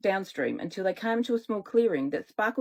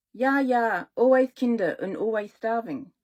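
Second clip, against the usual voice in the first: put-on German accent; 2 semitones higher, 4 dB louder than usual. Witch speaks German-accented.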